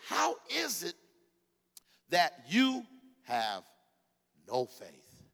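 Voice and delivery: rebuking shout. Acted. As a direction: call them out like a rebuke. Jesus rebuking disciples.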